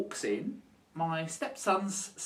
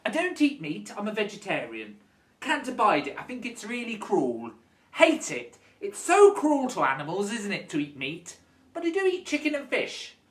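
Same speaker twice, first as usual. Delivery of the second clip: mocking fake vegetarian; 4 dB louder than usual. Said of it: "And they go".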